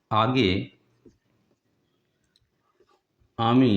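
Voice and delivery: isolated words with very long pauses; slow dictation. Shown as a demonstration. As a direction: give each word alone, as for copying down. Teacher dictates second example word by word.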